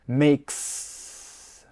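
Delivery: "Makes" with a long sss ending; "Makes" finished on a sustained hiss; hissing final S. Shown as a demonstration. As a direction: stretch the unvoiced s at the end of "Makes". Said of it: "as an S".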